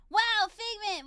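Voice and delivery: loud, high exclamation of wonder; put-on starstruck cheer; playful awe. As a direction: gush at a childhood hero. Acting starry-eyed wonder for camera.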